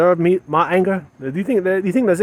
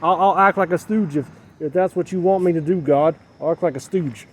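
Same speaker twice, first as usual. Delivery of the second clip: higher, louder begging to God; pleading prayer; 3 semitones higher, 4 dB louder than usual. Acted. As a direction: cry out to God for love, pleading. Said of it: "Am I saying".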